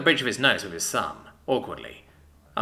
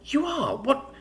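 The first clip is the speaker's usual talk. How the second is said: high, slow indignant yelling; indignant outburst; 13 semitones higher, slower than usual. Acted. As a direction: rise to an outraged yell. Jealousy outburst.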